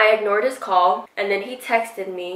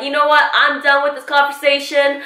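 fed up; 5 semitones higher than usual. Retold or imitated. Retold fed-up end of argument.

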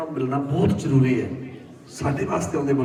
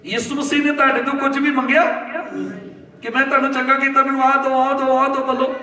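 higher, urgent rhetorical question; forceful preaching; 7 semitones higher than usual. Real, not acted. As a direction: press the congregation for an answer. (ਜੋਸ਼ ਨਾਲ ਸਵਾਲ ਪੁੱਛਦਾ ਪ੍ਰਚਾਰਕ)

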